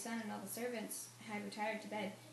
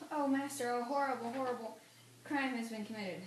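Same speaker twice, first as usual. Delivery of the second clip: alarmed cry; 2 semitones higher, 4 dB louder than usual. Acted. Servant bursts in with alarming news.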